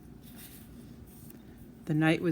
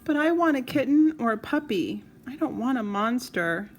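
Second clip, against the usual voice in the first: tearful; 6 semitones higher, 4 dB louder than usual. Acted. Child still crying.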